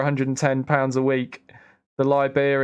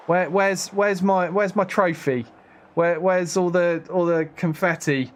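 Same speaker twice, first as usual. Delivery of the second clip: mock indignant; 4 semitones higher than usual. Real, not acted. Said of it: "I feel robbed".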